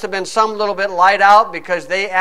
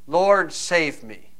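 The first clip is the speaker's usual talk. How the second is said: "Lord, save me" slow and softer, each word weighed; earnest prayer; 2 semitones lower, 5 dB quieter, much slower than usual. Shown as a demonstration. Preacher showing the congregation true prayer, slow earnest plea. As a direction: pray "Lord, save me" like a sinking man meaning it. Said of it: "This is the right kind of praying".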